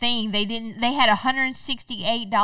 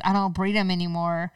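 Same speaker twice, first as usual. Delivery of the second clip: smug mock voice; 4 semitones lower, 5 dB louder, faster than usual. Mocking Carol's smug attitude.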